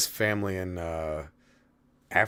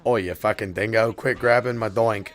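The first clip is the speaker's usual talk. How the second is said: mock Aussie; 3 semitones higher, 5 dB louder than usual. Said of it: "an Australian gay thing".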